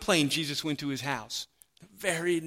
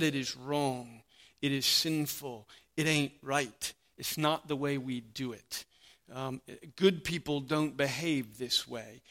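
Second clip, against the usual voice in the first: murmured disapproval; 3 semitones lower, 4 dB quieter than usual. Retold or imitated. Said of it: "They said".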